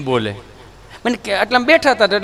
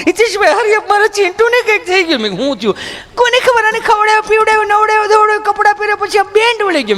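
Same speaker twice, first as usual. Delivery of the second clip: much higher, breathless mock panic; frantic mother; 11 semitones higher than usual. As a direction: wail like a fussy city mom. Frantic mother about her child. (બાળક માટે ગભરાયેલી માતાની ઊંચી બૂમ)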